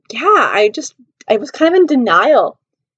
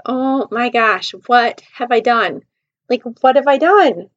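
dismayed regret; slower than usual. Retold or imitated. Retells regret after ignoring him.

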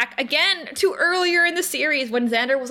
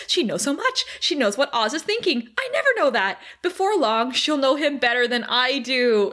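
mock panic. Imitating Willow fretting in her head, mock panic. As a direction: act out insecure fretting, lightly. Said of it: "Willow's panicking".

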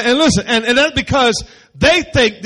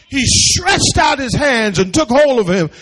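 louder, higher, full preaching cry; preaching shout; 4 semitones higher, 8 dB louder than usual. Real, not acted. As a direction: shout the verse to the congregation.

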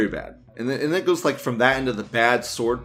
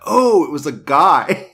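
laughing realisation; 3 semitones higher, 10 dB louder than usual. Real, not acted. Realising the character was gender swapped.

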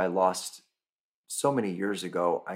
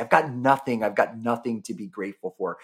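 frustrated outburst; 3 semitones higher, 5 dB louder than usual. Retold or imitated. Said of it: "you're gonna say".

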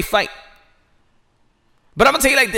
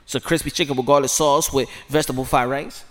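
ordinary talk

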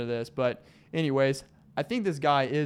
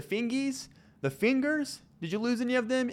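much higher, teasing voice; mock baby talk; 9 semitones higher than usual. Host teasing listeners about fireworks fingers, squeaky high. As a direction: tease the audience in a high squeaky tone.

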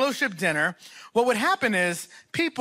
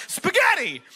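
hammed-up ta-da call; a cook's mock-triumphant shout; mock announcing shout; 8 semitones higher than usual. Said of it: "dumped the Hunt's can ... and said".

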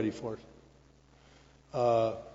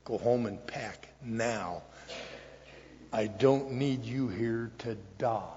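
put-on dying old man; 3 semitones lower, slower than usual. Dying sponsor gives firm orders.

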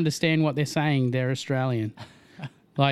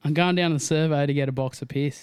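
broad Aussie slang demo; Australian accent. Shown as a demonstration. Australian setting a line for friends to copy, broad Aussie accent. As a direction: give the model Australian line. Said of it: "Say it again for me".

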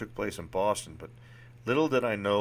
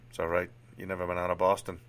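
lightly attempted Boston accent; amateur Boston accent, even-pitched; Sean, Boston accent. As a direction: play a frank psychiatrist with a rough Boston accent. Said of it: "Forgive my horrible Boston accent here".

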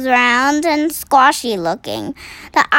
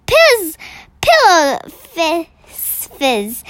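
mock shout; 3 semitones higher, slower than usual. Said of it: "shouted the Blood Bolter".

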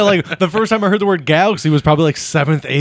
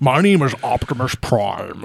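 mock Optimus Prime; 2 semitones lower than usual. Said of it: "that's kinda what he is".

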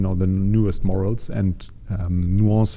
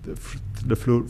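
vocal fry; 2 semitones lower, 9 dB quieter than usual. Shown as a demonstration. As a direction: let the voice crackle into fry. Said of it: "is the creaky voice".

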